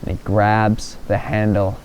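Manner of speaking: low, measured storytelling with long pauses; suspense narration. A narrator's reading.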